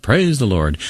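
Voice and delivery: mild storyteller's mock cry; retold crying out. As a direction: imitate her calling out, without real shouting. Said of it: "She cried out".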